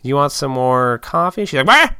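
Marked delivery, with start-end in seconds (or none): 0.0-1.5 lightly voiced old lady, a little higher; hint at an old diner lady; imitating old lady. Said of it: "that classic old lady". 1.6-2.0 put-on very high, loud old-lady squawk; old lady imitation. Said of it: "that classic old lady".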